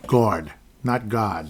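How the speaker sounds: slow "guard" then a Boston "guard" with no r; New York versus Boston guard. Shown as a demonstration. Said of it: "that's Boston".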